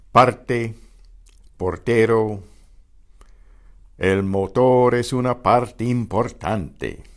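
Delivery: Parte, portero, motor with a brief roll on syllable-final R; Spanish Parte, portero, importante, short trilled R; lightly trilled R. Shown as a demonstration. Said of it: "The final R is about halfway".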